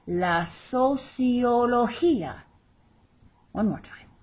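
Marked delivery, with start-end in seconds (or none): 0.0-2.4 slow, higher "sociología", stressing the "gí"; stress on final I. Shown as a demonstration. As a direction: draw out "sociología" and lean on the final í. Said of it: "accent over the final I where we stress the word".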